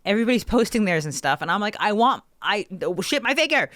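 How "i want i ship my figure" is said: high, pleading whine; exasperated plea. Retold or imitated. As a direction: whine at them to just ship it. Exasperated demand.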